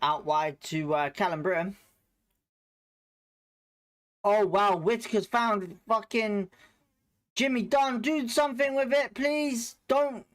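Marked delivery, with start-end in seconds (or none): 4.2-10.3 excited. Real, not acted. Big chance during live match.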